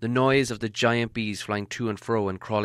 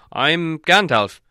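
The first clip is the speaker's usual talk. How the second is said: slow, raised wizard voice; wizard introducing himself; 6 semitones higher, 9 dB louder, slower than usual. A narrator's reading. Wizard introducing himself to huge man, slow and raised. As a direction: announce yourself slowly, pitched up.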